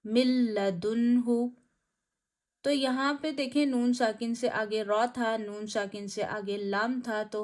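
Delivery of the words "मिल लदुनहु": मिल लदुनहु with the लाम doubled, slow, no nasal; no ghunna. Shown as a demonstration. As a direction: recite मिल लदुनहु merged, unhurried. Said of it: "नून साकिन की आवाज़ जाहिर नहीं करनी". (मिल लदुनहु बिना गुन्ना के)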